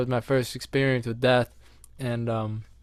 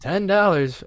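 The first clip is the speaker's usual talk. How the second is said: price tag voiced; 4 semitones higher, slower than usual. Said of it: "it'd be like".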